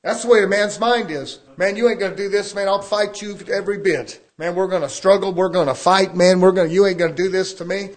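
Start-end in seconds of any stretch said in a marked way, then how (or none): 1.6-7.9 voicing a fighting man. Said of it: "I'm talking as a man now".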